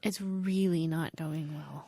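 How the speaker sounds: breathy whispered aside; whispering. Real, not acted. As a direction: whisper it under your breath. Whispered repeat of remark.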